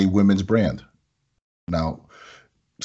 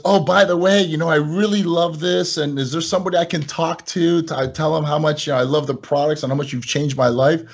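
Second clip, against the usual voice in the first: higher, gushing fan voice; gushing customer; 5 semitones higher than usual. Retold or imitated. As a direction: gush like a happy customer.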